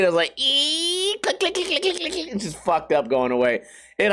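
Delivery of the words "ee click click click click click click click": high squeaky mouth clicks; imitated clicking motorbike. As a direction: click like a wrecked bike limping away. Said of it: "It was, like, clicking and shit".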